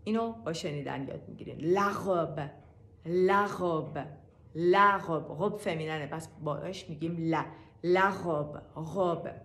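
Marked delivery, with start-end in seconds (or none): 3.1-4.1 لغب said slowly with a throaty r near غ; لغب را آهسته با ر نزدیک به غ بگو; French r. Shown as a demonstration. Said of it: "به غ بیشتر انگار کشیده است". (لغب با ر گلویی و کشیده)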